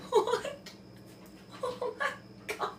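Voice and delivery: high breathless laugh through the words; real stunned laughter; disbelieving laugh. Real, not acted. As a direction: laugh it out in shock.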